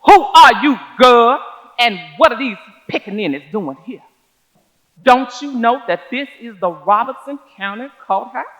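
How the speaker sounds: loom over her with the question; a hint of a menacing white man. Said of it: "said in a very menacing voice".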